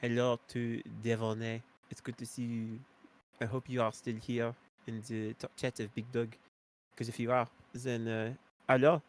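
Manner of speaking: exaggerated fake French accent, not accurate at all; bad French accent. Greeting a viewer in stream chat, in a hammed-up French accent. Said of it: "my horrible, uh, French accent that is not at all accurate".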